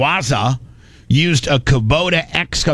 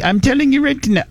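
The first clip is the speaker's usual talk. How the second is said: mock negotiator; 11 semitones higher than usual. Iran negotiators voiced in a quote.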